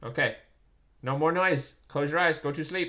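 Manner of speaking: loud, spoken-up voice. Parent tells a young son still up late to go to sleep, raised voice. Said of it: "I'm gonna have to raise my voice".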